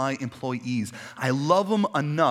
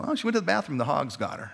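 joking dad; faster than usual. Retold or imitated. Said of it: "still to this day".

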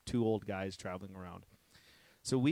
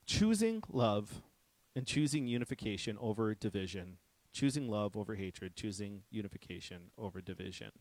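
preaching emphasis. Acted. Sermon theme stated.

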